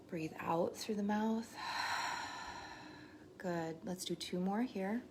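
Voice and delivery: unhurried meditation guide with long pauses; guided meditation. Real, not acted. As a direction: lead them gently through each breath, leaving space. Leads breathing and body scan.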